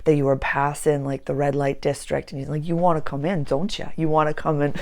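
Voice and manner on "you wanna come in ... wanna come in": put-on failed Southern accent. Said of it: "I can't even do a Southern accent".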